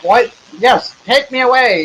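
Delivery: high, excited yelp of relief; eager milkman. Acted. Milkman begging the rescuer to take him away, high and eager.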